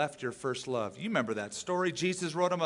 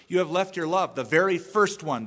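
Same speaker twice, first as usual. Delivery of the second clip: "first" punched louder in "the very first one"; stress on FIRST; 2 semitones higher, 6 dB louder than usual. Shown as a demonstration. Preacher explaining the Greek emphasis, stress on "first". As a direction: lean hard on the word "first". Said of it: "there's an emphasis on the word first".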